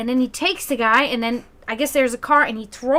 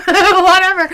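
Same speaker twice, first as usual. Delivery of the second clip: louder, higher laugh through the word; 7 semitones higher, 9 dB louder than usual. Real, not acted. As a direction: break into a laugh on "whatever". Laughing while quoting mom.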